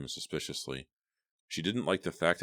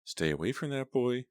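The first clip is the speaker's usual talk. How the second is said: firm instruction; 8 semitones higher than usual. A narrator's reading. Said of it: "her mother instructed".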